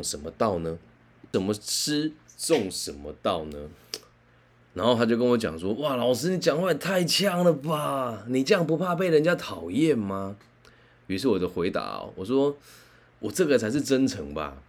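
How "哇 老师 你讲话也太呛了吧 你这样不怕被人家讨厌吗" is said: impressed student. Retold or imitated.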